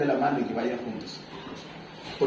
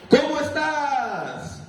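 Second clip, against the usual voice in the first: calling out; 8 semitones higher, much slower than usual. Retold or imitated. Father calls from hilltop.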